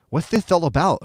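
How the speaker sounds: lightly voiced Spanish accent; a hint of a Spanish accent; bad Spanish accent. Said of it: "That's terrible".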